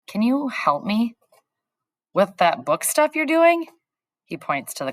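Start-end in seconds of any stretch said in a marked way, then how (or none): 0.1-3.7 pleading plea. A narrator's reading. Allie begging brother for help, pleading.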